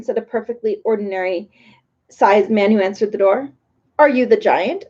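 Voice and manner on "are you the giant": doubtful. A narrator's reading. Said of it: "asked Talk doubtfully".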